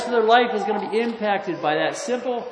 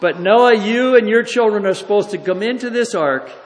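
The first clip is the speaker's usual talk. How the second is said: preaching; 3 dB louder than usual. Acted. Revival preaching at full force.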